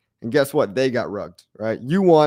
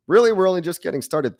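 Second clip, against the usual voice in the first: higher, pumped-up repeat; excited higher repeat; 5 semitones higher than usual. Real, not acted. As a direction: lift it up with hype.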